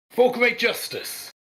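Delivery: high, loud, drawn-out heroic bellow; battle bellow. Acted. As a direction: bellow it slowly like a war cry. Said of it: "you can hear him bellow".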